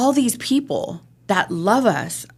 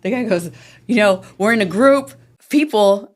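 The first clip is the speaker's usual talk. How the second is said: normal talking voice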